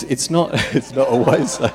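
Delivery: real chuckle interrupting the words; laughing. Real, not acted. Preacher joking about the heated baptism pool, laughing.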